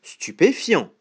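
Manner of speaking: mildly astonished exclamation; a touch of amazement; surprised. Acted. Gruffalo watching the owl flee, mildly surprised. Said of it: "répondit le gruffalo surpris".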